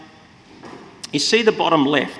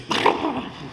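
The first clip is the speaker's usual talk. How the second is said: cockroach voice; 10 semitones higher than usual. Shown as a demonstration. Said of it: "trying to do my cockroach impression".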